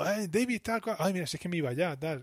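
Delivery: high, sugary flirting voice; coy flirt. Retold or imitated. Woman greets David, coy.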